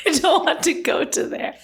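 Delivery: amused laughing echo; laughing repeat. Retold or imitated. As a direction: repeat her line through a laugh.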